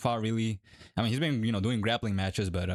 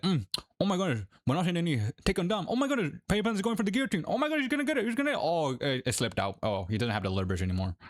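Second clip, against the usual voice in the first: excited commentator, much higher, climbing in pitch; DC commentary impression; 7 semitones higher, faster than usual. Fighter mimics DC calling the fight on commentary, rising excited voice. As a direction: hype up the fight call like a cageside commentator. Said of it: "like D C on commentary".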